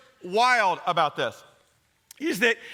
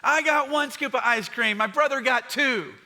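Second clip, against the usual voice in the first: put-on whiny kid; 4 semitones higher than usual. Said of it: "whines about how unfair his life is".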